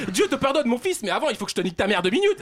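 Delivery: hammed-up fury behind a blessing; mock angry priest.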